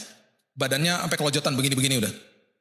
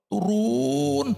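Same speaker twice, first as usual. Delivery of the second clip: ordinary delivery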